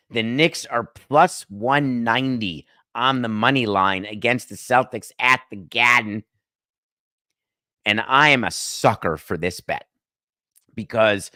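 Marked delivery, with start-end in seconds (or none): 5.2-6.3 "Garden" said the Boston way, without the R; Boston accent. Acted. Host quoting betting odds, Boston accent. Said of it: "trying to do my Boston accent".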